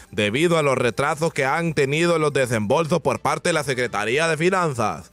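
lightly mocked formal news read; other stations' newsreader. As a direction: read it like a dull rival newscast. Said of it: "Así hablan los de los otros noticieros".

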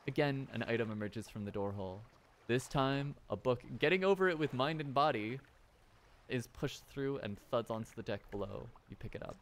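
plain storybook narration of an item falling; story narration. A narrator's reading. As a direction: describe the scene evenly like a storyteller. Reads game narration aloud.

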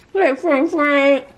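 high loud calling of a name. Real, not acted. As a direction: call across the room to him. Calling to grandbaby.

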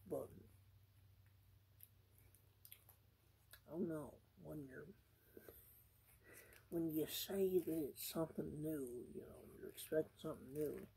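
chewing while talking; food-muffled speech; mouth full. Real, not acted. Seen 2: Takes repeated bites of the burger between and during phrases.

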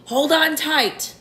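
high, drawn-out warning call; excited shout. A narrator's reading. Old grasshopper warning everyone as the peach moves, excited shout. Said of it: "shouted the old green grasshopper".

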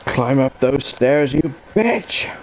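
slow mock action-heroine command, pitch jumping on the insult; Sigourney Weaver. Player orders herself upstairs, mock heroine. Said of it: "That's just how Sigourney Weaver talks".

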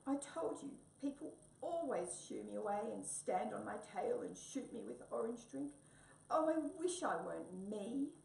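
Tabby wailing from the tree, crying. Acted. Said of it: "sat there crying".

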